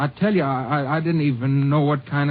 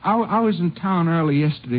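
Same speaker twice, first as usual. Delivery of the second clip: panicked pleading; 4 semitones higher than usual. Acted. Suspect panics at being arrested.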